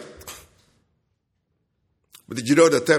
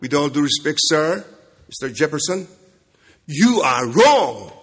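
defiant rebuke; 3 dB louder than usual. Pretend. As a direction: correct him with mock politeness. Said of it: "I'll say to him".

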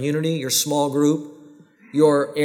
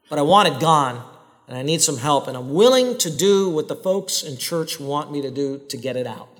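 sincere confession prayer. Shown as a demonstration. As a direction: pray it humbly, meaning every word. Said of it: "It should sound something like this".

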